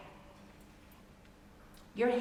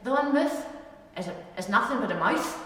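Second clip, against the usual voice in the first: Ulster Scots saying. Shown as a demonstration. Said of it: "here's, I say".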